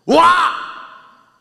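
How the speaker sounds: loud, high wow; astonished cry. Acted. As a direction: gasp in amazement. Astonished exclamation.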